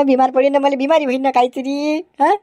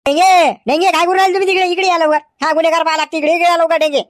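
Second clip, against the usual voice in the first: calling out; 3 semitones higher, faster than usual. Acted. Inspector yelling for constable Denge to come, raised calling voice. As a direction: call him over from across the station.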